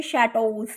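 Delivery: शैटोज said "sha-toze", long "o"; silent x. Shown as a demonstration. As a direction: end शैटोज in a Z-like S with no K. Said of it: "इसकी pronunciation होती है". (शैटोज, अंत में "क्स" नहीं, "टोज़")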